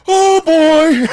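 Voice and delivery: high, loud mock yelp of alarm; startled exclamation. Friend startled by the charging bear, high loud yelp. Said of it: "he goes".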